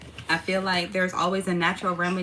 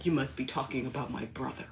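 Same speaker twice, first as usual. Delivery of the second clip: put-on low deadpan boy; 8 semitones lower, 8 dB quieter than usual. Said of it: "he was like".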